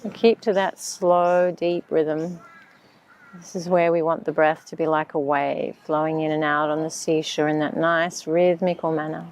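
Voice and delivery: calm, unhurried meditation voice; measured breathing-exercise instructions; guided meditation. Acted.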